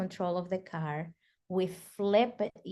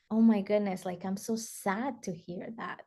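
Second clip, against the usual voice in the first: genuine, gentle empathy; mean every word of the sympathy; softening into heartfelt concern; sincere sympathy. Shown as a demonstration. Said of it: "That's just it".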